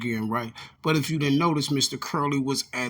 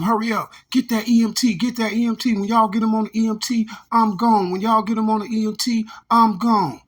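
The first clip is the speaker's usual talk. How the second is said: much higher, louder, hurried mock yell; mock urgent shouting; 7 semitones higher, 5 dB louder than usual. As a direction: bark it out fast like a panicked bystander. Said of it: "You're gonna hear him be like".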